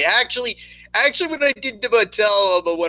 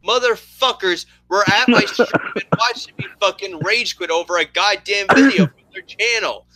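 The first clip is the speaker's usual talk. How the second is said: mock rage; 5 semitones higher than usual. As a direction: swear it out like a fake meltdown. Ranting about Machinima recording rage quit.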